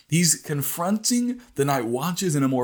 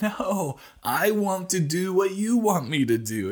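David's passion; 7 semitones higher than usual. Retold or imitated. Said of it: "But David said".

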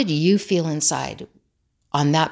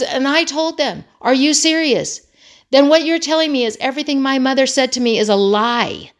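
high-pitched incredulous retelling; stunned; 7 semitones higher, 4 dB louder than usual. Retold or imitated. Son confronting critics of his looks, stunned imitation. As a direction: act out wounded disbelief, pushing the voice up. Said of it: "he was genuinely stunned".

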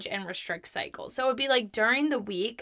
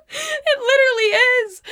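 much higher and louder, squealed through laughter; high laughing squeal; 14 semitones higher, 9 dB louder than usual. Real, not acted. Repeating it to listeners, squealing with laughter. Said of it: "No, it literally is though".

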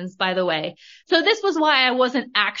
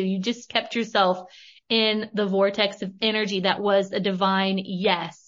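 fed-up spirit guides; 2 semitones lower than usual. Retold or imitated. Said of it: "were sick of my shit".

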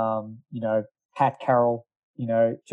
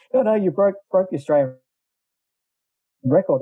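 higher-pitched, insistent retelling; retold excitement; 7 semitones higher, 3 dB louder than usual. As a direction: imitate someone excitedly breaking the news. Retold friend announcing the record at trackside.

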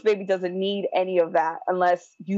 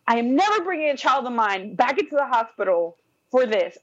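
higher-pitched, emphatic vow, retold; retold anger; 4 semitones higher than usual. Mother tells husband she is done with hospitals, retold anger. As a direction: relive being mad without raising the volume. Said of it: "and I'm mad".

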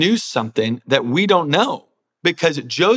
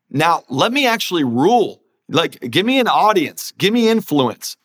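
higher-pitched, imagined plea for power; mock demanding; 4 semitones higher than usual. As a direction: play someone finally claiming their due, pitch swooping up. Imagines demanding reward after promotion.

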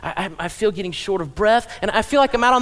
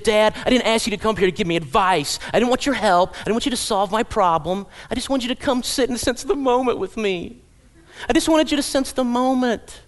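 put-on exasperated teen daughter; 4 semitones higher than usual. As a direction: play the annoyed daughter scolding her father. Disgusted teen daughter voiced.

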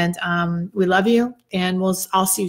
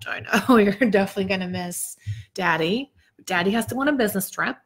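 mommy talk with a laugh; lightly put-on parent talk; talking to children. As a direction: playfully break news as if to little kids. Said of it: "I don't know why I'm talking like this".

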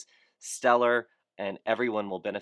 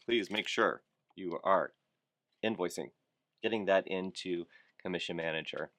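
a touch lower and softer, in earnest; serious voice; 3 semitones lower, 4 dB quieter than usual. Pretend. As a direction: say it like a stern reminder. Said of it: "this is my serious voice".

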